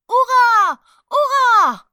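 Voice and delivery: high, full-voiced cheer; crowd yelling. A narrator's reading. Crowd cheering the emperor's procession, yelling. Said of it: "hurlait la foule".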